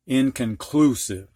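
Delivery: "inconclusive" with main stress on "clu" and lighter stress on "in". Shown as a demonstration. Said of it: "You emphasize this syllable the most, this second most".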